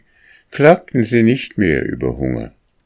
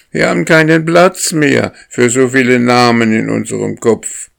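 higher, loud whining complaint; goslings crying out; 7 semitones higher, 6 dB louder than usual. A narrator's reading. Overloaded goslings complaining to the lead goose, high and loud. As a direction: shout it up high like fed-up young geese. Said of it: "schrien die Jungen".

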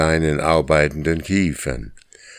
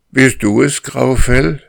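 calling out; 10 semitones higher, 7 dB louder than usual. Acted. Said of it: "fragte Karr".

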